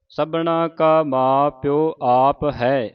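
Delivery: very slow, stop after ਹੈ; pause after ਹੈ. Shown as a demonstration. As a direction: rest on ਹੈ before going on. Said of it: "ਇੱਥੇ ਵਿਸਰਾਮ ਹੈ".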